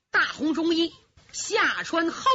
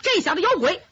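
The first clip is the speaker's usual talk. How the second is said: shrill-edged roar of a rough fighter; strange yell; 6 semitones higher, faster than usual. Acted. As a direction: bark it at your elder like a hothead. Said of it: "一声怪叫".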